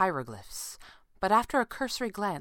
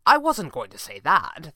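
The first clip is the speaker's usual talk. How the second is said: louder, insistent objection; protesting; 5 dB louder than usual. A narrator's reading. Red panda objects to the stranger, protesting. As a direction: push back against the accusation. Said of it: "the red panda protested".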